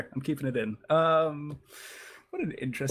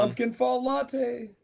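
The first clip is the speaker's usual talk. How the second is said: slow; 8 semitones higher, slower than usual. Pretend. Slow mock announcement.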